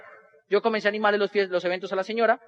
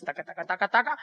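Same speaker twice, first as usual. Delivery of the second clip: low, rhythmic keyboard chatter; typing noise; 3 semitones lower, 5 dB quieter than usual. Retold or imitated. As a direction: quietly rattle off keys clacking. Imitates typing while searching online. (tecleo imitado con la boca)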